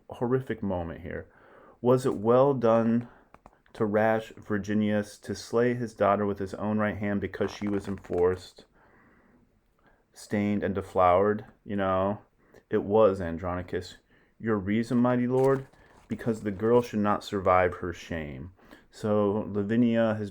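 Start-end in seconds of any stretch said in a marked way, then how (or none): 1.8-11.5 measured, declaiming stage reading; dramatic Shakespeare reading. Acted. 12.7-18.5 measured, declaiming stage reading; dramatic Shakespeare reading. Acted. Reading dialogue aloud.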